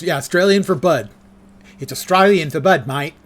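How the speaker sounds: hammed-up Aussie beer-ad accent on mate; mock Australian accent. Streamer repeats the Foster's slogan, mock Australian accent. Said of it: "I've drunk Foster's".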